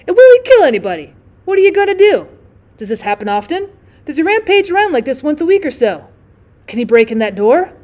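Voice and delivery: loud, high, rapid-fire worry; 1 panicky questions. Acted. Drummer panicking about the gunman, loud and high. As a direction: pile on the frightened questions.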